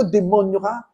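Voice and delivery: rising to a sharp loud demand; stern rebuke. Retold or imitated. Preacher confronting a demon, sharp loud demand.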